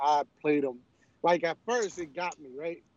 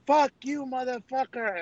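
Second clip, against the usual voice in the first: retold angry cursing; 8 semitones higher than usual. Scammer cursing out the prankster, mock angry. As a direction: imitate a caller losing his temper. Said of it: "we just went off".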